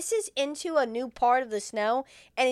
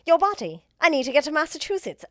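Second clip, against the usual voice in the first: raised, loud mock British accent; 4 semitones higher, 7 dB louder, faster than usual. Possessed Jonesy answering himself, mock British accent. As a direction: imitate the alien with a British accent. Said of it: "he's doing a British accent".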